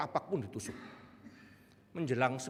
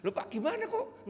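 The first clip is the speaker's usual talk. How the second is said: surprised question. Retold or imitated. Pastor surprised at request.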